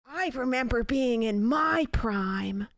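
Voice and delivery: slow, lightly breathy Jennifer Coolidge drawl; a light take on a sultry Hollywood star, stretched out. Acted. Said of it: "Whilst you're doing impressions".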